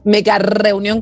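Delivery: megarreunión with a rolled RR; "mega reunión" run together as one word, R rolled; rolled double R. Shown as a demonstration. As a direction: trill the R hard in "mega reunión". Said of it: "con doble R".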